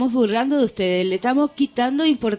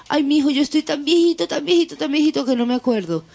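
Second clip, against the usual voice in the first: lightly voiced old man, a bit higher and fast; a hint of a doddering old man rattling on quickly; 5 semitones higher, faster than usual. Joke teller voicing the old man at heaven's gate, lightly doddering. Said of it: "sube el alma de un viejito".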